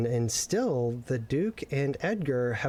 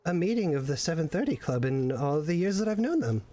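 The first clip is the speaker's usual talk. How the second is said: worried Maximilian; 3 semitones higher than usual. Acted.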